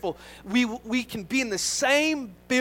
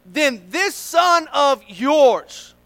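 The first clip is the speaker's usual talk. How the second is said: louder, higher aggrieved protest; resentful complaint; 4 semitones higher, 8 dB louder, slower than usual. Acted. Older brother complaining to his father, loud and aggrieved. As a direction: pour out years of grievance. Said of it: "The son said".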